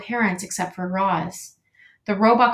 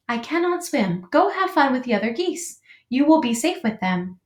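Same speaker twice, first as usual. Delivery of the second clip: slightly raised, measured mother voice; lightly voiced robot mother; 4 semitones higher than usual. Robot mother sends gosling to the flock, light character voice. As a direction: encourage the little one, lightly in character.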